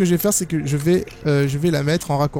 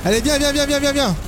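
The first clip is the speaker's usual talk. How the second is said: taunting; 5 semitones higher than usual. Real, not acted. Taunting the monster again.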